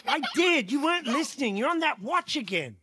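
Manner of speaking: mock parental telling-off; scolding mother. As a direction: snap back lightly at a child. Mama Bear argues back.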